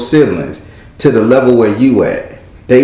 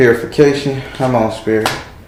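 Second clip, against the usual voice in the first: normal talking voice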